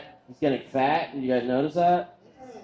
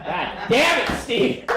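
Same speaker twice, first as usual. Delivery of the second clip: laughing, high and loud at a heckler; half-laugh, half-yell at Steve; laughing outburst; 9 semitones higher, 5 dB louder, slower than usual. Real, not acted.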